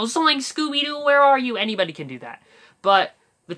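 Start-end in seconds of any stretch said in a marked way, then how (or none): 0.0-1.6 high Shaggy calling out. Shown as a demonstration. Shaggy calling for lost Scooby, high and loud. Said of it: "anybody can, you know, just go".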